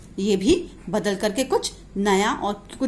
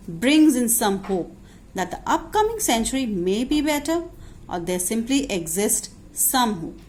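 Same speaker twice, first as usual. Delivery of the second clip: slow, deliberate dictation pace for students to copy; teacher dictating notes word by word; much slower than usual. Shown as a demonstration. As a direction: spell it out slowly so the class can write it down.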